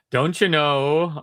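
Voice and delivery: put-on slow, drawn-out northern Minnesota accent. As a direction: stretch it out like an old northern Minnesotan. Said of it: "northern Minnesota has that little".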